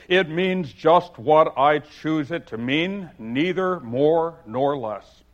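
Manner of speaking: haughty Humpty scorn; scornful. Acted. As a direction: lay down the law with disdain. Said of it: "said in a rather scornful tone".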